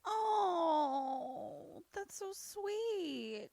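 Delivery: real tears at a sweet moment; soft, teary reaction to a sweet movie ending; touched to tears. Real, not acted.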